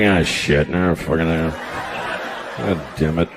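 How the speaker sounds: low, quiet disgusted grumble; grumbling guy. Retold or imitated. Guys after masturbating, a low disgusted grumble. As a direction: mutter it like a disappointed guy. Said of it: "The guys are like".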